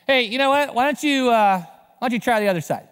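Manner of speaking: high holler with a casual suggestion; calling from shore. Acted. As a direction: call advice out to the fishermen. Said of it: "from the shore".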